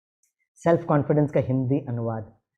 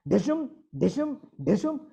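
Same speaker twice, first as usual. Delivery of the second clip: spoken comic fight noises, pitched up; mock punch sounds; 9 semitones higher than usual. Husband and wife at war, mock punch noises. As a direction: punch out each cartoon blow separately.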